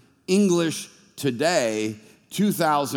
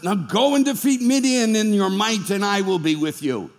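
voice of God; 5 semitones higher than usual. Acted. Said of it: "all of a sudden God says".

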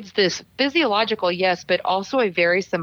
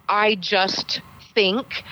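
hedging; much slower than usual. Shown as a demonstration. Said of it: "anything that sounds like".

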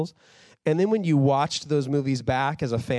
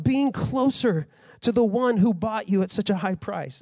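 raised, urgent pleading rebuke; a hint of Paul's anger, pitched up; impassioned rebuke; 5 semitones higher than usual. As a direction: warn them with fired-up passion. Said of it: "He says".

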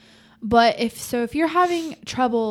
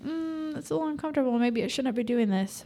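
inner doubt voice; 5 semitones higher, 3 dB quieter than usual. Retold or imitated. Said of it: "you're like".

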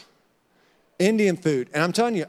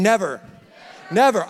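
firm, louder never; said with conviction; 3 dB louder than usual. Shown as a demonstration. Pastor leads the church in saying never, firm and loud. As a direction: plant the word never with full conviction. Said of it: "Let's say it with conviction".

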